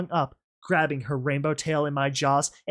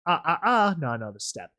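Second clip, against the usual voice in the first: menacing taunt; 2 semitones higher than usual. Acted. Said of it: "The tone of her voice".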